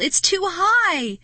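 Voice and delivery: high, loud, slow wail. Acted. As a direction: wail in despair at the wall. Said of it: "he wailed".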